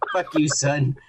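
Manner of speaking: mock-defeated retort, no push behind it; a beaten man's limp comeback, played for laughs. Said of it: "replies in a defeated tone".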